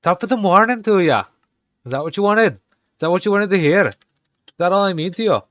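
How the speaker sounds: high, loud, hammed-up Irish stereotype. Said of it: "my accent's gonna be just degrading".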